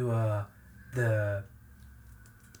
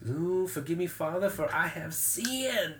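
drawn-out, higher mock plea; mock confession; 5 semitones higher, slower than usual. Podcaster retelling a film character's prayer before being shot, mock confession. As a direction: plead slowly for forgiveness, hammed up.

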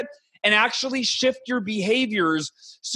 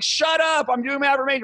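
higher, mock-irritated shushing of your own doubts; annoyed snap back; 6 semitones higher than usual. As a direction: brush off the inner voice, pitched up and testy. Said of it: "You're like".

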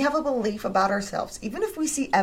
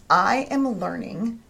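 trying out a new thought; 3 semitones lower than usual. Shown as a demonstration. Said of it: "what was the next better thought".

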